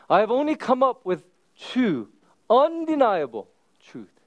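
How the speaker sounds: lightly voiced old priest; a hint of a wise priest; priest's voice. Father Kavanaugh telling Rudy the truth, lightly voiced. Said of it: "he says to him".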